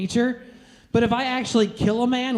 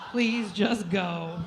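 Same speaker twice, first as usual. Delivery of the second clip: weary quiet plea; 7 dB quieter, much slower than usual. Acted. Dismissing guy after sex.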